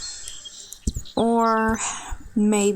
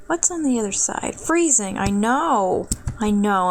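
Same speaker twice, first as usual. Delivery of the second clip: kitty cat and dog voice. Real, not acted. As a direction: coo it like talking to your cat. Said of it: "kitty cat and dog voice".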